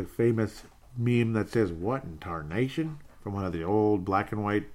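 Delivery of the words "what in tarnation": put-on slow, understated old Western exclamation; lightly voiced, drawn-out cowboy bafflement; old Western character. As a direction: say it slowly, softly mimicking an old Western. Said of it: "old Western shows there".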